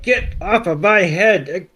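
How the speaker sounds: slow, lightly strained mock protest; mock struggling Dragonite. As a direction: drag the words out as if struggling. Dragonite struggling to dislodge Pikachu.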